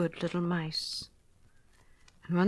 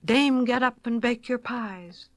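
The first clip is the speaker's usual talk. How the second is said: loud, slow call, pitched higher; cock crowing out; 4 semitones higher, 6 dB louder than usual. Acted. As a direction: crow it out like a rooster at dawn. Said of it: "the cocks cried out".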